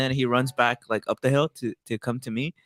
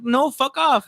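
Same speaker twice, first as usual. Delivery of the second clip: high, mildly raised rebuff; mock refusal; 12 semitones higher, slower than usual. Man imagining refusing to lend his phone, high mock refusal. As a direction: pretend to tell a stranger off, pitched way up.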